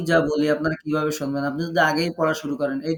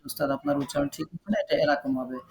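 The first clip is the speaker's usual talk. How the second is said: higher, quick mock student voice; student correcting teacher; 5 semitones higher, 5 dB quieter, faster than usual. Teacher acts out a student correcting him, higher and quick. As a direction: lightly play a student politely correcting. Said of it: "তাহলে বলবেন".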